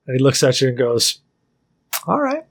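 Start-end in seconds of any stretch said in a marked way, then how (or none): 2.1-2.4 high farmer voice. Acted. Farmer NPC accepts the bet.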